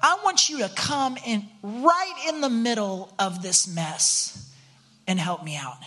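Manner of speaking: slow, pleading prayer to the Lord, drawn out on mess; a sincere slow plea for help; humble prayer. Pretend. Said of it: "and say".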